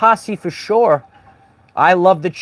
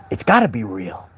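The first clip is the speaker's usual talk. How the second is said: mock believer, lower; 9 semitones lower, 5 dB quieter than usual. Mocks gullible viewer.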